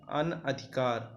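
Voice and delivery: अनधिकार said slowly, syllable by syllable; slow spelled-out word. Shown as a demonstration. Teacher dictating a spelling word, slow and clear. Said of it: "अनधिकार में कहीं कहीं पे अनाधिकार लिखा रहता है".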